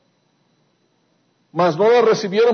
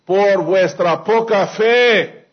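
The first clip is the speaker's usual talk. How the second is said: Jesus answering the disciples, slow and firm; solemn rebuke; much slower than usual. Retold or imitated. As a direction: lean on fe, slow and weighty. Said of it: "Y les dijo".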